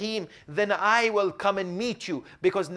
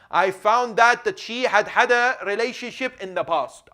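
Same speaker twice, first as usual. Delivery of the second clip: agitated outburst; 6 semitones higher, 9 dB louder than usual. Acted. Husband recounts shocking discovery.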